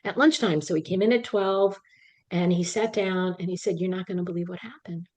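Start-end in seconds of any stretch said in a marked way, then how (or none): 3.8-5.1 secretive retold whisper; hushed, can't-believe-it whisper. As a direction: lean in and whisper the news. Doctor retells news conspiratorially.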